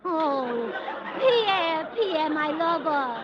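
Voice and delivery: slow swooning lover's sigh; drawn-out melodrama. Acted. Josephine calling her lover Pierre: slow, swooning melodrama. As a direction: linger over the name like a tragic heroine.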